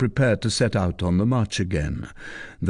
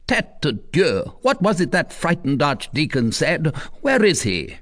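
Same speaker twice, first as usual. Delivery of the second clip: higher, impatient oath; commander swearing; 7 semitones higher than usual. Acted. Commander asking his men, impatient. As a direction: curse and demand an answer.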